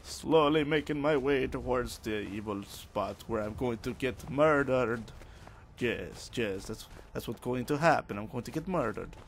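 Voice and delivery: hammed-up Italian accent; playful, badly faked Italian accent; fake Italian accent. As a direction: put on a mock Italian lilt. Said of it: "Putting on a fake Italian accent".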